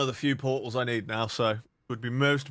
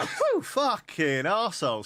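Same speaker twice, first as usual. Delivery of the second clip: sneezing; 9 semitones higher, 3 dB louder than usual. Real, not acted. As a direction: sneeze then a curse. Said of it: "Sorry about the sneeze".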